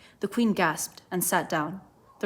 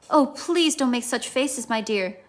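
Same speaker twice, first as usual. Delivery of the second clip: laughing plea; 4 semitones higher, slower than usual. A narrator's reading. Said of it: "she cried out".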